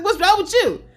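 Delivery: high, laughing repeat of the question; laughing echo. Retold or imitated. Laughing back at a coughing friend on the phone. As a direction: throw the question back while cracking up. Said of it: "I was like".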